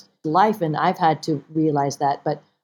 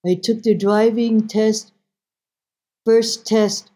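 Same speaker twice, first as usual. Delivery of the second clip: slow, higher-pitched mother impersonation; mother's voice; 4 semitones higher, 3 dB louder, slower than usual. Retold or imitated. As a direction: recount it deliberately as the mother. Mother explains her failed tests.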